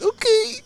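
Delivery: very high, crying squeak of okay; mock crying okay; squealed okay. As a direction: break into a squealing wail. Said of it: "it'd be like".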